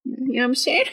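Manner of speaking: playful impression of a rapper. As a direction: toss it off like a rapper. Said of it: "Is that your Cardi?".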